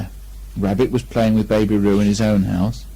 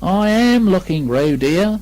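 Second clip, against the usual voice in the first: mildly severe; 8 semitones higher, slower than usual. Acted. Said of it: "rather severely".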